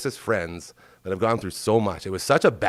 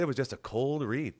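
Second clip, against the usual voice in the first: ordinary talk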